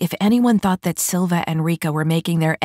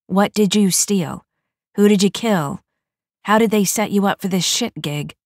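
louder, higher, pushing questions; pressing questions; 4 semitones higher, 3 dB louder than usual. A narrator's reading. Rika grilling the new mech, loud and pressing. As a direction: press her hard for the crime.

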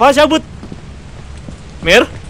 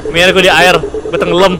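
muffled like talking through water; underwater distortion. Real, not acted. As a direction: voice gurgling as if underwater. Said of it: "Suaranya kayak di dalam air aja".

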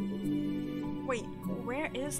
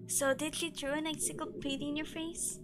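put-on old man voice; 5 semitones higher than usual. Shown as a demonstration. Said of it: "practice my old man voice".

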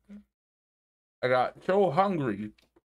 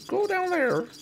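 squeaky high voice; high-pitched quote. Retold or imitated. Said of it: "I help this guy out by saying".

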